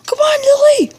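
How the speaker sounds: loud high call; shouting. Acted. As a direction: yell her name across the room. Calling out to Lily.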